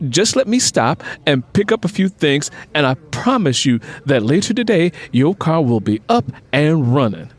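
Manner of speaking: high, insistent no no then steady promise; reassuring Luther. Acted. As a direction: reassure her eagerly.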